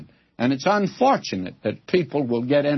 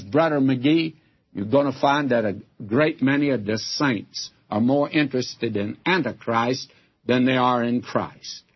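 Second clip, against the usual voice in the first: lightly imitated broken Prussian accent; a hint of broken Prussian-accented English. Preacher quoting a visiting doctor's warning, light Prussian accent. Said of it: "He says in that broken accent he had, that Prussian accent".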